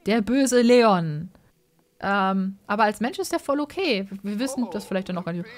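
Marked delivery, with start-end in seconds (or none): 0.1-1.3 evil vampire. Acted. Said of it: "mehr so".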